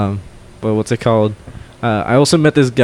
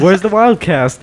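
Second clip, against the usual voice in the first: high, drawn-out mock scream; retold screaming; 8 semitones higher than usual. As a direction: call it out high and slow, re-enacting a fan's yell. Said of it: "And I'm screaming".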